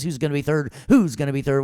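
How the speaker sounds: loud, high, rallying the class; hype-man call. Real, not acted. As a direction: pump up the room. Teacher hyping class answers.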